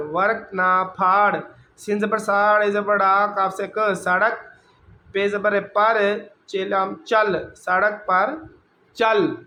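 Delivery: put-on sing-song letter-by-letter spelling for children; spelling drill. Shown as a demonstration. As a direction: spell each syllable out, then join the word like a teacher. Teacher spells out Urdu words. (استاد کی طرح ہجے کر کے پڑھنا)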